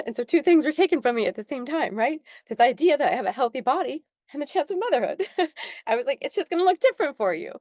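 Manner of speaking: apologetic through real tears; real crying. Real, not acted. Guest mourning her chance of motherhood, crying. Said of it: "I'm really sorry that I'm crying right now".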